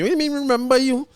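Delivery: squealed mock protest at his wife; mock indignation. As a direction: play up the jealous husband's disbelief. Retold jealous outburst at wife.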